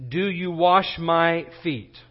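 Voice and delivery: slow question leaning on "my"; measured question with "my" stressed. Retold or imitated. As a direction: ask it slowly, weighting "my". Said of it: "emphasize the word "my," 'cause this is what Peter is doing".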